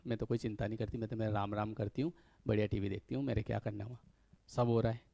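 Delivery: माँ की तरह धीमी, शांत आवाज़ में; बेफ़िक्र माँ का हल्का सा अंदाज़, नरम और धीमा; माँ की हल्की नकल. Retold or imitated. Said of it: "वो कहती है". (बेटे को समझाती माँ, धीमी और बेफ़िक्र आवाज़ में)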